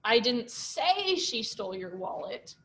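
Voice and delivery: "say" stressed, slow even delivery. Shown as a demonstration. Teacher showing the stress game, weight on "say". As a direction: hit the word "say". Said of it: "stressing all the different words".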